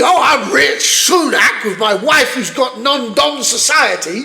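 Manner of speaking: slow, sneering mock voice of Sunak. Mocking Rishi Sunak and his wife, slow sneering impression. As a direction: lightly send up the rich prime minister.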